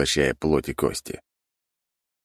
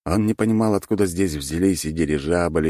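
ordinary delivery

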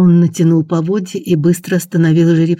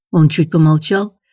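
ordinary delivery, nothing marked

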